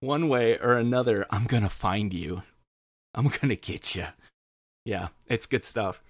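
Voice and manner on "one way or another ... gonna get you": slow, creepy stalker whisper-talk; lightly menacing, like a stalker. Shown as a demonstration. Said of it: "you slow 'em down and you say 'em in a stalker voice".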